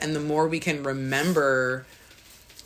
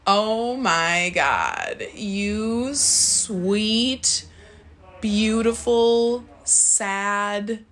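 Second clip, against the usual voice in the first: slow, higher, half laughing, half crying; laugh-crying tenderly; 5 semitones higher, much slower than usual. Retold or imitated. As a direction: marvel tenderly through laughter at something small. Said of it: "I started laughing and crying with God".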